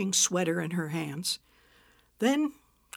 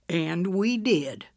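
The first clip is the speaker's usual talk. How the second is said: mild triumph; slower than usual. Acted. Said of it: "Margaret said triumphantly".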